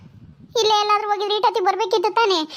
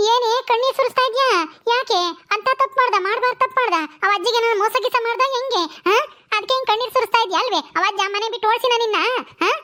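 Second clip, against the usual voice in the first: higher-pitched, prying mock interrogation; scandal-hungry village gossip, pitched up; accusing taunt; 4 semitones higher than usual. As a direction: needle her with accusing questions. Neighbour taunts and accuses weeping wife.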